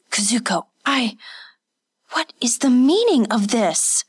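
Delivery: a touch of indignant demand. Acted. Kazuko confronting Hatsumi over the beating, lightly demanding. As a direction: insist on an answer, mildly. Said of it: "Kazuko demanded".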